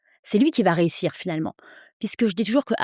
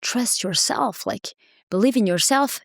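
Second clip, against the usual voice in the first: slow, encouraging words in English; slower than usual. Shown as a demonstration. Coach encouraging her clients, slow and kind. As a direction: coach someone gently to trust themselves. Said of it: "toujours avec des mots d'encouragement".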